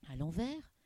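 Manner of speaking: incredulous question climbing high; astonished. Acted. Tomek told the river flows backwards, astonished. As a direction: ask in wide-eyed amazement, voice shooting up. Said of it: "les yeux écarquillés".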